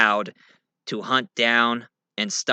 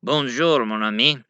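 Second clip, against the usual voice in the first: put-on Cajun accent. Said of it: "Ah, Cajun French, right?".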